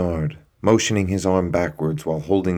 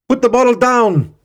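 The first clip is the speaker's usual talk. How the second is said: high, very loud order at full force; commanding shout; 9 dB louder than usual. Acted. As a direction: yell it with the gun raised. Armed guard ordering Bernard.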